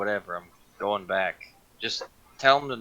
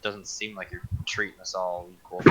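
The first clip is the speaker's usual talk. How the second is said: quiet grumbled aside; muttering under breath; 9 dB quieter than usual. Acted. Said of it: "As I mutter under my breath".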